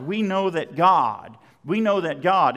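loud, emphatic GOD at the end; GOD punched with a falling tone; stress on GOD. Shown as a demonstration. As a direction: land hard on the word GOD. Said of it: "The emphasis is on God".

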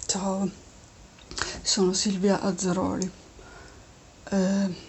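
strained, failing voice; voice giving out. Real, not acted. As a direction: talk through a worn-out voice. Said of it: "scusa la voce un po' così".

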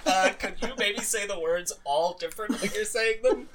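lightly voiced director correcting a star; every exasperated director. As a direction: tentatively ask the actor, half laughing. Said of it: "really good impression of every director".

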